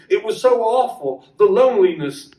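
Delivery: a mild plea to a returned lover; pleading. Acted. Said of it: "Deirdre cried out".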